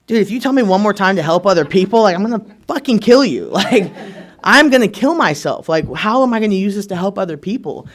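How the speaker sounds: fed-up friend snapping back; retold angry outburst. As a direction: vent at the sponsor, half laughing. Exploding at sponsor, retold.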